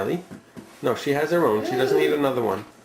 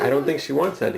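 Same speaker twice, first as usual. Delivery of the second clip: laughing. Real, not acted. Parent laughing at dinner.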